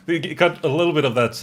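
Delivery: lilting Minnesota accent with a Swedish tinge. Shown as a demonstration. Showing how Fargo actors were coached, Minnesota accent. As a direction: put on a singsong Minnesota accent. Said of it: "talk like they talk in Minnesota".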